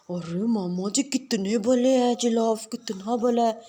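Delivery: put-on slow, lisping little girl voice; child cooing over the giraffe; little girl admiring. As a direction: coo at the gentle giraffe.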